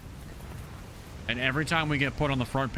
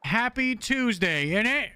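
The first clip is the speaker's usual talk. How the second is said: British impression; 8 semitones higher than usual. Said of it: "That's my best impression of Smith Doggy".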